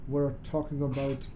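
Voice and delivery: a stern teacher dropping to a hushed hiss; terrible Snape impression. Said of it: "My terrible, terrible Snape accent".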